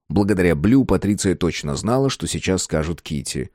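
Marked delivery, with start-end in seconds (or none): none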